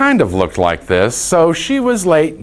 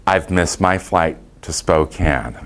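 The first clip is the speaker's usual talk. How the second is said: calm, lower-pitched and composed; composed retelling of a calm request; 5 semitones lower, 3 dB quieter than usual. Retold or imitated. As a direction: state it quietly and evenly, imitating a composed traveler. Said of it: "very calmly said".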